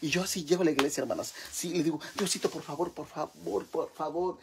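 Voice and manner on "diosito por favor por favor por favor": soft comic begging to God; imitated pleading prayer. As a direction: plead softly, repeating it like a prayer. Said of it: "Yo así le pido al Señor". (súplica suave a Dios, imitada)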